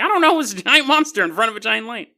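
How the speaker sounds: mock dazed witness. Dazed witness retelling to investigators.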